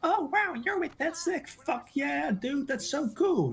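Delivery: put-on high, gushing valley-girl squeal; teenage girl voice. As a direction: gush it like an excited teen girl. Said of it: "it sounds like a teenager".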